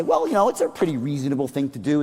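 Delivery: quick, easygoing reasonable-man voice. Shown as a demonstration. Speaker shows the audience a persuasion tone, in a reasonable man tone. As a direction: toss it off like the sensible guy in the room. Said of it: "in the reasonable man tone".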